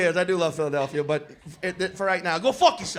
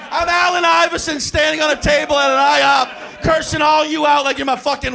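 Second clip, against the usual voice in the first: laughing shout; 2 semitones higher than usual. Real, not acted. Comedian laughing while ranting at the Philly crowd. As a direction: bark it while cracking up. Laughing loud self-description.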